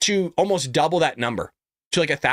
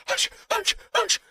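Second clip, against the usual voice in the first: shushing; 3 dB quieter, slower than usual. Retold or imitated. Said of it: "He's like".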